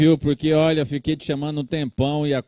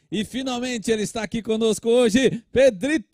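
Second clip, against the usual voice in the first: excited announcement; 6 semitones higher than usual. Acted. Host announces the puppet's entrance.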